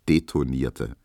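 ordinary delivery

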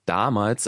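"damals" set apart and emphasized; "damals" as its own weighted beat; stress on damals. Real, not acted. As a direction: lean on the word "damals". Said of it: "Betonung liegt aber auf damals".

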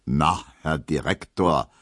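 suddenly meek before the boss; slow servile standard German; submissive, very proper. Acted. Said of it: "meint Gustav Schmelow unterwürfig und sehr hochdeutsch".

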